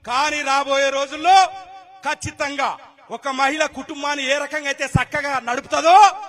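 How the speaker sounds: loud rallying stump speech; political oratory. Acted. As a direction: project it to the whole crowd. Political speech at full force. (రాజకీయ సభలో గట్టి ప్రసంగం)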